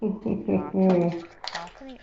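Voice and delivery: tentative go at a Scottish accent; unsure Scottish-accented attempt. Shown as a demonstration. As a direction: try the word in a rough Scottish accent. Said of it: "say it with a Scottish accent".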